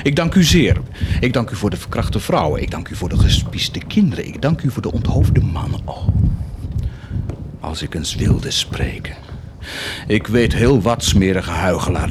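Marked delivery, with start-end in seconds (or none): 0.0-5.8 mocking prayer. Mock prayer thanking God. 5.8-9.1 sly whisper. Acted. Sly hint.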